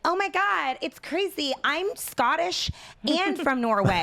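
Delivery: high, gushing mock white person. Mocking white people's ancestry talk, high gushing impression. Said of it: "like any white person where they're like".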